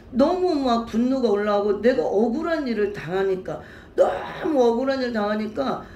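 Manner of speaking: choked up, near sobbing; tearful testimony of being wronged; crying. Real, not acted. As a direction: voice breaking with tears as she speaks. Retelling betrayal, voice breaking.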